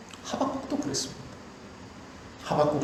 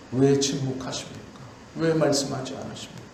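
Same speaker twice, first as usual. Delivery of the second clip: low, slowing, lonely plea; plaintive lament; 4 semitones lower than usual. Retold or imitated. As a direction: murmur the prophets' lament. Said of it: "라고 부르짖습니다".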